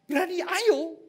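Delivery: high, loud retold dare; fighting challenge. (tantangan berkelahi bernada tinggi dan keras)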